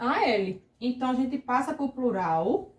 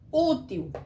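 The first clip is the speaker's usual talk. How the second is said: "útil" with a higher-pitched Ú; stress on first syllable; 4 semitones higher than usual. Shown as a demonstration. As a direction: lift the U of "útil", let the til drop. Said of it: "forte o U".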